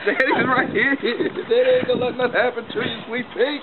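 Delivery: gentle reassuring dad voice; calm a little one down. Real, not acted. Dad reassures child on trampoline.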